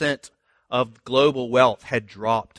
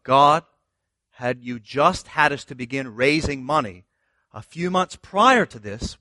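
anguished plea to God; 4 semitones higher than usual. Retold or imitated. Retelling his complaining prayer to God.

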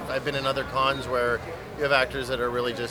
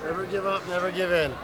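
movie catchphrase; 2 semitones higher than usual. Acted. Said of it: "Don't make me say the line again".

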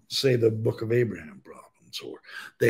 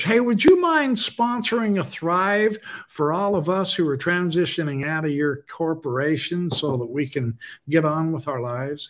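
higher-pitched pleading pitch, tongue in cheek; play-acted request in a raised, overly hopeful voice; mock petition; 5 semitones higher than usual. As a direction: pretend to ask a cheeky favor. Acting out a petition to the church.

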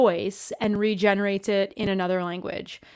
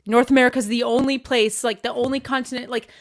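mock self-yelling; 3 semitones higher, 3 dB louder than usual. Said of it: "I'm yelling at myself right now".

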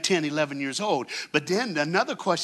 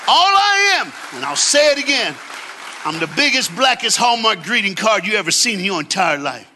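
higher, louder, building to a shout; preaching at full force; 5 semitones higher, 5 dB louder than usual. Acted. Preacher shouting hope to the congregation, full force. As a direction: lift the crowd with rising fervor.

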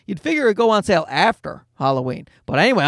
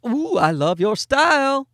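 put-on flamboyant toddler; 6 semitones higher than usual. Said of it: "he's like".

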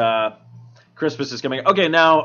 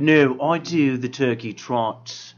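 hipster turkey voice. Retold or imitated. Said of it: "Is that how hipster turkeys talk?".

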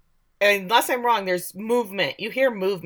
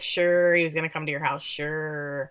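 sarcastic sheriff; 3 semitones lower than usual. Retold or imitated. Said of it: "The sheriff's like".

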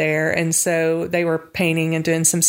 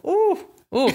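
swooning; 12 semitones higher than usual. Real, not acted. Swooning over husband reading Bible.

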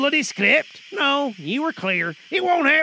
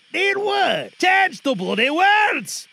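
irritated Scottish shout; angry scolding. Real, not acted. Director scolding actor.

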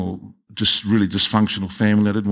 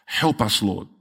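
congregational prayer; 2 semitones higher than usual. Real, not acted. Pastor thanking God for the church's vision, in measured prayer. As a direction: lead the church in earnest thanks, pausing between phrases.

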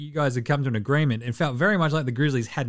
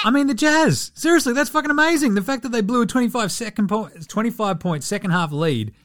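gleeful disbelief; 7 semitones higher than usual. Real, not acted. Gleeful about Jazz collapse.

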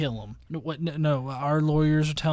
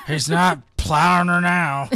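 laughing; 3 semitones higher, 6 dB louder than usual. Real, not acted. Laughing at partner's joke.

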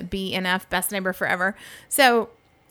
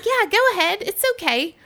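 imitating British guy; 12 semitones higher than usual. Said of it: "And he's like".

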